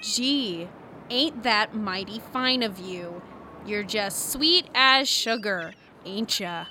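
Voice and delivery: sarcastic. Acted. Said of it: "I don't do accents".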